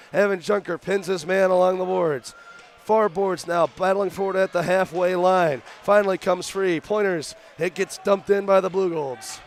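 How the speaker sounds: breathless play-by-play; winded from calling nonstop action; out of breath. Real, not acted. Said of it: "I'm out of breath".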